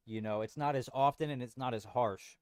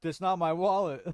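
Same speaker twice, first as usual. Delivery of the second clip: dopey, clueless cartoon starfish voice; Patrick; 5 semitones higher, 5 dB louder than usual. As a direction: play it goofy and clueless. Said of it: "and Patrick is like".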